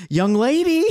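put-on high, loud "Young lady"; squeaky old man "Young lady"; bad acting. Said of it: "current Frank goes".

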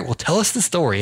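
a hint of a smooth, cool host; lightly played smooth-talking host; smooth operator. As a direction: lay it on as a slick interviewer. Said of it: "I'm smooth operator".

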